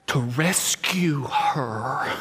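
slow, breathy whisper on rescue her; slow hushed whisper. Real, not acted. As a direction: drop to a hush, very slowly. Sermon climax, whispered.

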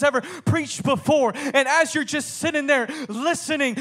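building, urgent sermon delivery; impassioned preaching. Acted. Preacher asking listeners to envision hearing John, building fervour. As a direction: draw the congregation into the moment.

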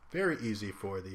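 words pushed out through a burp; "very easy for the" said with a burp. Real, not acted. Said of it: "excuse me for the burp there".

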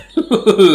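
quick burst of laughter; short laugh. Real, not acted. Laughs at teasing.

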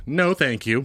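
imitating a polite English refusal; English accent. Correcting cohost with an imitation English accent. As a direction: say it like an English person. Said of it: "they go like this".

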